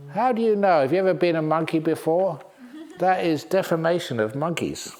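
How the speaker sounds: playful mock indignation, pitch jumping up; mock outrage. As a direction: pretend to be offended for the monkeys. Mock outrage on behalf of monkeys.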